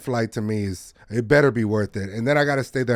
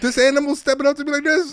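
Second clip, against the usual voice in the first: laughing; 13 semitones higher than usual. Real, not acted. Picturing kangaroo stepping up.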